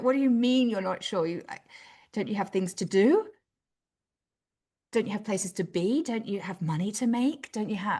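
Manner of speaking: loud, freaked-out, alarmed put-on delivery. Retelling how a husband would have reacted: imitating James freaked out. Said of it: "He went".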